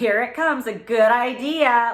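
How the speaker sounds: very loud, slow, drawn-out sarcastic tone. Retelling how a man answered her idea to the camera, retelling a sarcastic remark. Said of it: "Like sarcastic".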